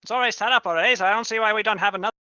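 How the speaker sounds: carnival barker. Acted. Barker keeps selling festival.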